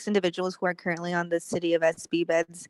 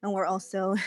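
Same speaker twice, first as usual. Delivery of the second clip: out of breath. Real, not acted. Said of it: "sorry, I'm out of breath. I just came up the stairs".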